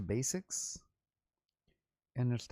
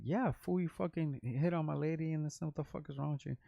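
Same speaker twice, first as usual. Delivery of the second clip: higher-pitched retold telling-off, not shouted; indignant confrontation; 5 semitones higher than usual. Man confronting the rapper who hit on his girlfriend, mildly indignant.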